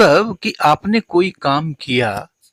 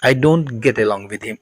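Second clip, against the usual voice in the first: slow model sentence; 2 semitones lower, much slower than usual. Shown as a demonstration. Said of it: "इसको हम English में कहेंगे".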